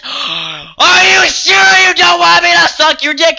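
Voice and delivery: high, loud, slow drawn-out taunting voice; mimicking the stranger, hammed-up and loud; mock creep voice. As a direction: pitch way up and stretch it out. Mocking the creep's question.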